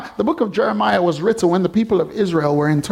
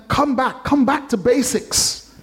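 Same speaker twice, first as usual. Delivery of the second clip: lightly voiced pleading call, higher; God's call; 7 semitones higher than usual. God calling his people back, higher and drawn out. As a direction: call them home gently. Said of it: "it's calling them".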